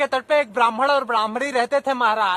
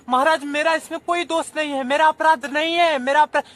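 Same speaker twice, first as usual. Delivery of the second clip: fast, higher, louder plea of innocence; pleading defence; 4 semitones higher, 4 dB louder than usual. Acted. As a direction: protest your innocence hurriedly.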